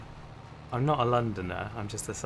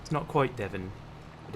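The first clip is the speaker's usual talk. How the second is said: Hampshire accent. Shown as a demonstration. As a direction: put on a Hampshire accent, close to Devon. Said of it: "a bit more like that".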